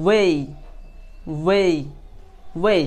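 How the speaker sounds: "way" with a full ay glide; drilled "ey" sound. Shown as a demonstration. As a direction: repeat "way" as an isolated teaching model. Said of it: "তারপর আপনি বলবেন".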